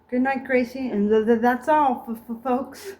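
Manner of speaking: Porky stutter sign-off. Acted.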